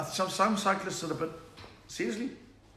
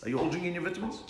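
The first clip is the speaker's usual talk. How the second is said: usual speaking voice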